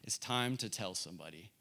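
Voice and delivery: gently voicing the Lord's nudge, softly; lightly voiced tender inner voice; sweetest way. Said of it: "revealing to me in the sweetest way".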